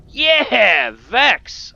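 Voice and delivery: high, loud whoop; triumphant cheer. Real, not acted. Player celebrates Vex's support, loud high cheer.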